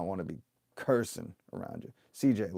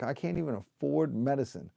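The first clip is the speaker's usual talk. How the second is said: higher-pitched retold exasperation; almost losing it; 4 semitones higher than usual. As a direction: relive the frustration at the pharmacy. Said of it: "almost losing it in the C V S line".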